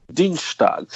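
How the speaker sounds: "Dienstag" said with a Bavarian lilt; German guest showing her Munich-sounding "Dienstag". Shown as a demonstration. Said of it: "Tuesday is".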